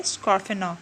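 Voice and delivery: स्कॉर्फेनर with the R at the end left silent; silent final R. Shown as a demonstration. Teacher showing students how to read the word, स्कॉर्फेनर with silent final R. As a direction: end स्कॉर्फेनर on an open vowel, no R. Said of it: "इसमें आर एंड पे silent है".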